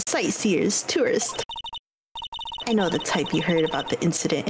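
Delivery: hint of a nagging old lady; chatty old lady scolding gawkers; sweet old lady. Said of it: "Give us your best old lady voice".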